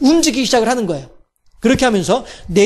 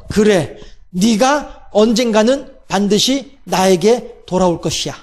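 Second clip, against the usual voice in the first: tender voice of God; 3 semitones lower, slower than usual. Acted. God's hopeful words to Adam.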